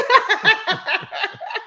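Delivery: a high, long burst of laughter. Real, not acted. Mother laughing at son pedaling home fast, high laugh. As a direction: crack up at your own story.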